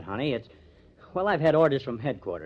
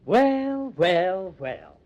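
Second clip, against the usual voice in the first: surprised well well; 5 semitones higher, 5 dB louder, much slower than usual. Acted. Surprise at millionaire visitor.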